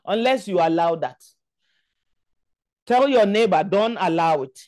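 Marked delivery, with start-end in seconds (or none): 2.8-4.6 forceful, chanting prayer leader; preacher praying with insistent force; fervent prayer. Real, not acted. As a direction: lead the congregation in urgent, repeated petitions. Leads congregation in forceful prayer.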